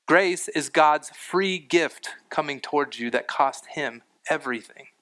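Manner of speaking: usual speaking voice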